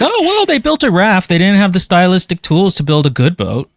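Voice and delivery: put-on high sing-song talking down to a child; patronizing. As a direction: praise it like a fussy parent. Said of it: "I wouldn't say it as patronizingly as that".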